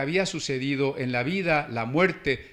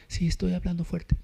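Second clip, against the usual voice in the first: imitating a shy child, thin and higher; timide jongen; 4 semitones higher than usual. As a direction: lightly mimic a boy who can't speak up. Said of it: "para que yo sacara la voz porque".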